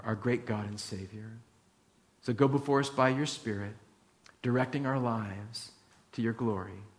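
pastor leading the church in prayer; closing prayer. Acted.

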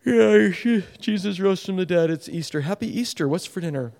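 mock shrugging tone; bored believer brushing off Easter; indifferent. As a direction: toss it off like it's nothing. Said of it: "That indifference".

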